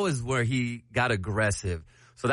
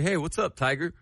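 lightly played casual confidence; acted confidence; 4 semitones higher than usual. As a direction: greet the tiger as if unbothered. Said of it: "make yourself appear very confident".

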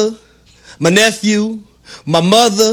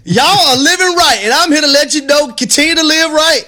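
high, slow preacher's call to the congregation; mock sermon; 5 semitones higher, slower than usual. Host preaching to Knicks fans from the pulpit, playful sermon.

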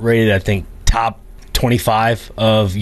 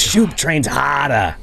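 slow imitating Boston accent; 3 semitones higher, much slower than usual. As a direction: do the coach's Boston accent, slowly. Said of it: "He has that Boston accent. He goes".

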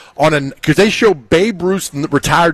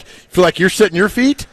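mock echo back; 4 semitones higher than usual. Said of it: "If I'm Cam Ward, I'm like".

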